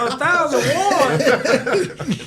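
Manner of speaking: high, incredulous mock disbelief; mock shock. Quoting his shocked reaction to the tip, high mock disbelief. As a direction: act out stunned surprise.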